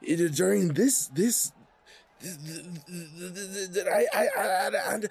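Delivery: high, stammering, overwhelmed voice; frantic fan unable to choose; excitable Ragmek. Acted. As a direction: gush helplessly, tripping over words. Game master plays excited Ragmek.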